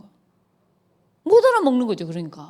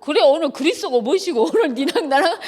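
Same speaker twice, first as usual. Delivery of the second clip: higher, laughing mock fury; mock angry mom; 6 semitones higher than usual. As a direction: challenge the daughter to a showdown, hammed up. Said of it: "내가 막 이런 적이 있다니까요".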